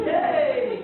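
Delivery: high, loud "Yay" squeal; mock cheer. Mock cheer at audience response.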